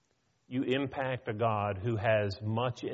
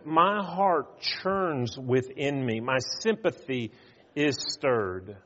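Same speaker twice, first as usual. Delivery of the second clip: tender; slower than usual. Retold or imitated. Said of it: "he goes on and says".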